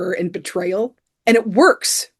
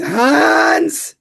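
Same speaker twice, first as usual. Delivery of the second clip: mock shout; 8 semitones higher, 4 dB louder than usual. McClane calling out Hans.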